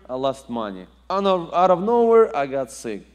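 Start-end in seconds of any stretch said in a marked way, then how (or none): 1.1-2.4 loud, high punch on nowhere; preaching at full force; emphatic preaching. Real, not acted. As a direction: hit it hard to build.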